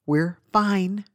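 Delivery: terse words through clenched teeth. Retold or imitated. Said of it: "through clenched teeth".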